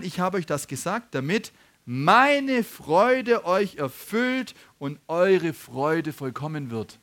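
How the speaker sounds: measured reading, slowing markedly on the promise; true scripture reading. Real, not acted. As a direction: read the verse out slowly and deliberately. Then reads the true verse.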